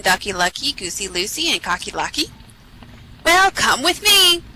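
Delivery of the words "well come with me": high, slow fox voice; luring cartoon fox; Foxy Loxy. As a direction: lure them along, drawn out and high. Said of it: "said Foxy Loxy".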